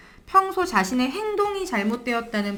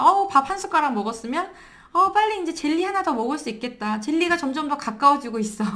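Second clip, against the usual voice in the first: higher-pitched, encouraging parent voice; upbeat coaxing; 5 semitones higher than usual. Acted. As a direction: coax a child along with a lifted voice. Parent cheerfully coaxing a child.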